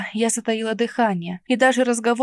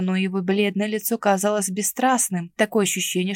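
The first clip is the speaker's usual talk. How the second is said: normal talking voice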